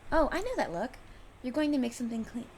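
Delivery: she's caught you scheming and loves it; knowing excitement. Acted. Friend teasing the inventor about a new gadget, eager and loud.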